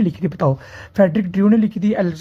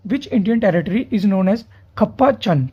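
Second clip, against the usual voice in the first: slowed-down, measured question reading; deliberately slower; much slower than usual. Real, not acted. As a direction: read the question out slowly for students. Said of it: "अगले question में थोड़ा slow बोलता हूँ".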